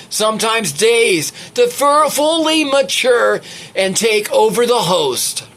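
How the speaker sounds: animated storytelling read; story narration. A narrator's reading. Read it aloud with lively emphasis. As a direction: reader telling own vampire story to listeners, story narration.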